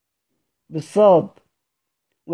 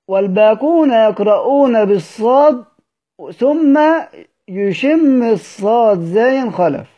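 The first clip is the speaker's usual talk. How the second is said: emphatic explaining paraphrase; 3 semitones higher, slower than usual. Shown as a demonstration. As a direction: explain it with rising insistence. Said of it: "كأنه يقول هكذا". (بحماس وصوت مرتفع في الشرح)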